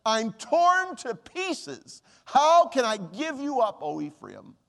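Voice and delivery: slow, pained plea, softening to the name; a father torn apart, begging; anguished plea. Acted. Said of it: "God now talking about his insides".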